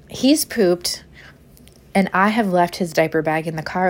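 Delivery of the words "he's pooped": whispered confession that he's pooped; hushed aside. Retold or imitated. Mother whispering the bad news to listeners, hushed. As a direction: drop to a breathy whisper.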